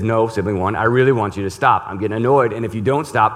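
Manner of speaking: a little sibling warning the other to stop, in mock agitation; agitated sibling. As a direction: play the fed-up little sibling. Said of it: "Sibling two gets agitated and says".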